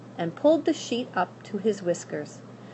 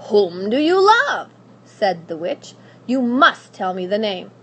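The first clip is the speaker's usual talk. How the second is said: loud insistence; demanding witch; 7 dB louder than usual. Acted. Witch demanding the name, loud. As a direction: press her for the name.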